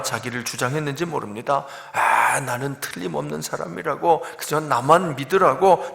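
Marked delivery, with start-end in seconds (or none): 1.9-5.9 mildly puffed-up retold boast; touch of mock self-assurance; boastful big talk. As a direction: imitate a man bragging about himself. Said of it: "늘 큰 소리를 쳤던 사람입니다".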